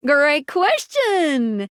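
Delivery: very slow, stretched-out exclamation; effusive praise. Acted. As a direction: draw out the praise for effect. Praises the player's question.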